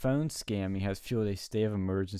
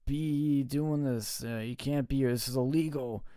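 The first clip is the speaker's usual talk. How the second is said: higher-pitched retold telling-off, no real shout; mock yelling tow trucker; 3 semitones higher than usual. Tow truck guy threatening stranded women with cops, mild mock yell. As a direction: lightly imitate a man yelling at stranded drivers. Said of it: "yelling at them".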